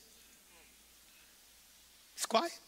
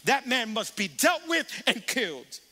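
indignant king; 4 semitones higher than usual. Retold or imitated. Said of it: "David's like".

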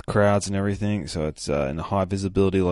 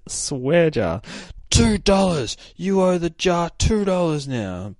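put-on much higher, louder little-girl voice; 10 semitones higher, 4 dB louder than usual. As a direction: squeak it out like a bossy kid. Girl with swear jar voiced.

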